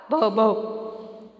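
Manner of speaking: soft mimicked bow-wow; dog bark imitation. Shown as a demonstration. Teacher shows children how a dog will sound, soft imitated bark. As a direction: bark twice like a dog, softly. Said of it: "How dog will sound?".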